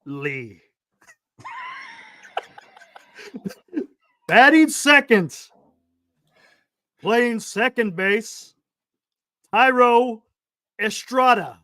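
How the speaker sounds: lightly voiced ballpark announcer; stadium announcer voice. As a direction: call the lineup like a stadium PA. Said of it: "P A voice".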